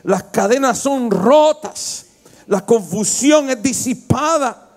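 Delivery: rising sermon cadence, lifted and firm; preaching. Acted. Pastor preaching to the congregation, fervent sermon voice. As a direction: preach it out to the church.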